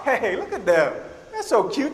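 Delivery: ordinary talk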